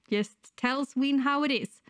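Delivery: ordinary talk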